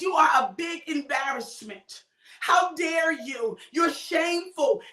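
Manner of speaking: a hint of an offended wife; wife rebuking David for dancing, mock angry and slow; scolding wife.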